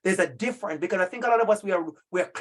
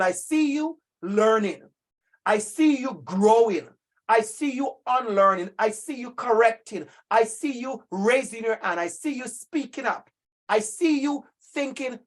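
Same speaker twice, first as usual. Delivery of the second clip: emotional affirmation. Real, not acted. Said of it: "I'm getting emotional".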